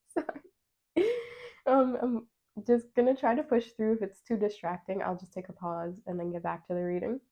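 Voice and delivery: talking through the hiccups. Real, not acted. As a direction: push through hiccups while speaking. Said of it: "I also got the hiccups".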